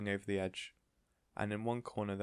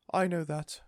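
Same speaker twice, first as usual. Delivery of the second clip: high and louder; doting lady; 9 semitones higher, 7 dB louder than usual. A narrator's reading. Missus Silver answering Mister Hoppy, insistent. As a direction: insist sweetly.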